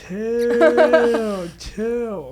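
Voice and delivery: high, drawn-out loud exclamation; exaggerated phone-call holler; imitated phone yelling. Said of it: "it raises at least by ten octaves".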